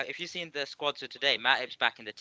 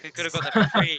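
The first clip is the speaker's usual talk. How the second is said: exasperated shout; 5 semitones higher, 7 dB louder than usual. Real, not acted. Outraged sports banter.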